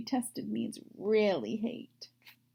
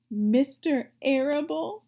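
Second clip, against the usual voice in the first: sobbing; 4 semitones higher, 5 dB louder than usual. Acted. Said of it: "sobbed Wilbur".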